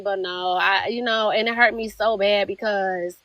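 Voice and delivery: real hurt, holding back emotion; getting emotional. Real, not acted. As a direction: struggle to keep composure. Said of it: "I'm sorry, I'm getting emotional".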